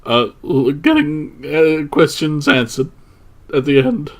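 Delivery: halting, stumbling delivery; very nervous. Acted. Student as if at a microphone, nervous and halting. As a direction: trip over the start and leave gaps. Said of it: "very nervously".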